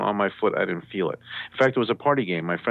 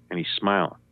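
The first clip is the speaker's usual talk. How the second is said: usual speaking voice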